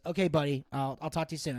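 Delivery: low, soft reassurance; subdued retold goodbye; conciliatory sign-off. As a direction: gently close a tense phone call. Making up after retold quarrel.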